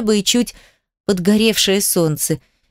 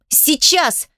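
insistent; 6 semitones higher than usual. Acted. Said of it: "настояла девочка".

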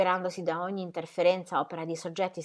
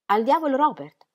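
higher, puzzled echo of al diavolo Robert; stunned repetition; 6 semitones higher, 6 dB louder than usual. Acted. Ingeborg repeating Ingram's curse, utterly stunned. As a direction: echo his curse in bewilderment. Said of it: "ripeté assolutamente attonita".

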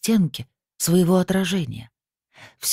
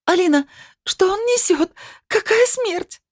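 wailing shriek. Acted. Svetlana unable to bear the medium's words, shrieking. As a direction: howl the question in disbelief. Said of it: "завопила Светлана".

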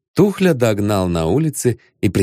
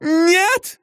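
quick answer. Acted. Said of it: "быстро ответила Регина".

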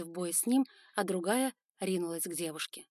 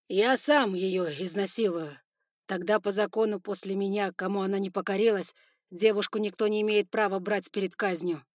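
firm declaration; 6 dB louder than usual. Acted. Son declaring his choice to the spiders, loud and firm. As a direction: say it so all hear.

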